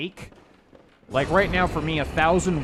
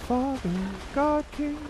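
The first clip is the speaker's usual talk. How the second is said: character voice; slower than usual. Retold or imitated. Quoting game dialogue dramatically.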